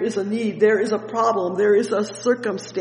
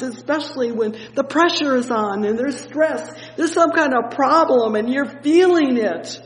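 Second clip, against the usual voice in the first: rising preacher fervour; preaching build; 6 semitones higher, 4 dB louder than usual. Acted. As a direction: pitch rising higher through the run, ending louder. Sermon builds in intensity.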